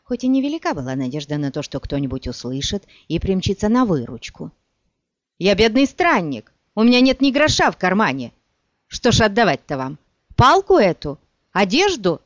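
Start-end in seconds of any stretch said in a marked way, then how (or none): 5.4-12.2 pleading. Acted. Frightened traveller pleading with robbers.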